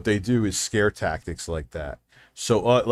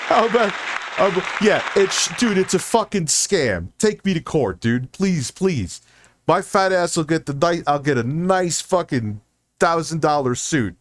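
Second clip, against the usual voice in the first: heated rant; 5 semitones higher than usual. Real, not acted. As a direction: let the outrage spill out. Ranting at scammers.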